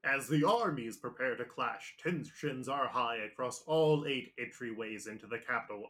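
dramatic dubbed anime recap narrator; English One Piece narrator voice. Acted. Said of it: "my English One Piece narrator voice".

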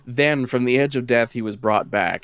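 measured lore reading; lightly dramatic storyteller voice; story narration. Acted. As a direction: read it like a dark legend. Reads the lore text aloud.

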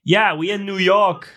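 high, slow mock German accent. German friend answering the bar gang, slow imitated German accent. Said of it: "'Cause he's from Germany, so that's my accent".

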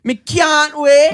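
put-on slow, high, loud Jamaican accent; exaggerated Jamaican accent. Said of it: "You just did the accent".

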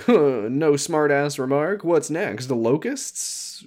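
dry, slow sarcastic jab. Retold or imitated. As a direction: drawl it out mockingly. Quoting sarcastic mom.

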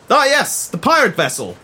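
stern naval commander giving orders; commanding admiral. Acted. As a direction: bark orders from the bridge.

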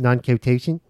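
Philadelphia vowels on non-cototient, said as /nɑ̃nkʰeʊteɪʃən/; Philly accent. Shown as a demonstration. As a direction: give it a Philly twang. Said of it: "say that in the Philly accent for us all".

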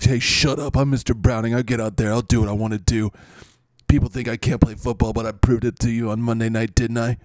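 mildly aggressive braggart, firm; Mister Browning. Acted. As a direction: cut in and boast, lightly combative. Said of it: "your aggressive behavior".

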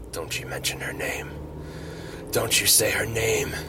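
a hushed, half-whispered threat; whispering a mock warning to Thor not to say her name; hissed warning. Tony warning Thor about Pepper.

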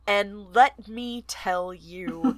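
slow, drawn-out savoring of each word; excited anticipation. Real, not acted. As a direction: stretch it out like a big reveal. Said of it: "I am so excited to read this".

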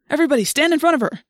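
high, loud, rapid command; rally them fast and loud; urgent order. A narrator's reading. Urgent order as police arrive.

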